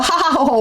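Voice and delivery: mock ha-ha-ha; imitated laughter. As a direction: spell out their laughter as spoken syllables. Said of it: "And they go".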